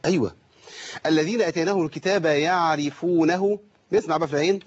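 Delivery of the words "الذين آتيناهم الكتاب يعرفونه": measured chanted recitation; Quran recitation. Shown as a demonstration. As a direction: recite the verse slowly with tajweed.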